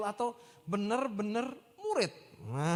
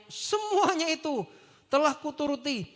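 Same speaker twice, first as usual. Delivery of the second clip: boastful claim; 5 dB louder than usual. Retold or imitated. Young man boasting to Jesus, smug and loud. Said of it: "kata orang muda itu padanya".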